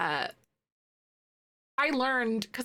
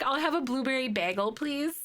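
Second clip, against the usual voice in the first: Midwestern order; 2 semitones higher than usual. Retold or imitated. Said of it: "my friends are like".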